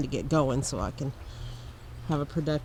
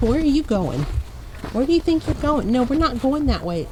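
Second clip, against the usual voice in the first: high, loud call after a wandering dog; 8 semitones higher, 5 dB louder than usual. Real, not acted. Scolding the dog.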